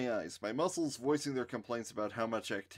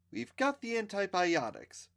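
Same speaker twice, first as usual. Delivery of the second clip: haughty; 9 semitones higher than usual. A narrator's reading. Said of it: "Wendy said haughtily".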